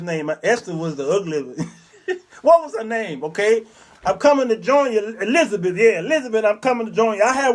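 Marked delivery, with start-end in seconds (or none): 4.0-5.8 Fred Sanford heart attack. Retold or imitated. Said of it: "one of those Fred Sanford". 6.0-7.2 Fred Sanford heart attack. Retold or imitated. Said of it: "one of those Fred Sanford".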